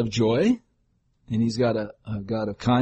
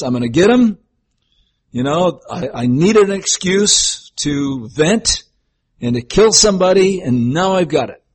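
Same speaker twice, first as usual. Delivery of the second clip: a touch louder, mock-menacing; mock vengeful God; 4 semitones higher, 4 dB louder than usual. Preacher mocking a vengeful God, mildly menacing. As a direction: growl it like a grudge settled. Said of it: "But he never has this".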